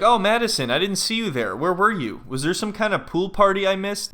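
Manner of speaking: hammed-up oblivious fiance; mock surprise. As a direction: act as if just noticing someone. Voices oblivious Joe noticing Madison.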